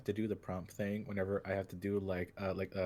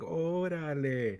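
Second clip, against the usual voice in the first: long, high, drawn-out Cholo call; loud Cholo accent prompt; 9 semitones higher, 5 dB louder, much slower than usual. Shown as a demonstration. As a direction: stretch it out slowly in a Cholo accent. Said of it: "the Cholo one".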